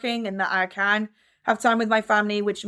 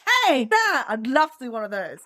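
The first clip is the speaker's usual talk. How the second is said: hammed-up advert spokesperson; cheesy commercial voice. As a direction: pitch it like a corny worldwide commercial. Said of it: "And I'm like".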